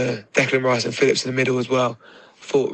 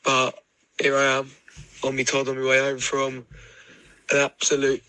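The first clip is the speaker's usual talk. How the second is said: drag queen voice. Real, not acted. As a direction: drag queen voice after a big day. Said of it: "Return of the drag queen voice of feeling like shit".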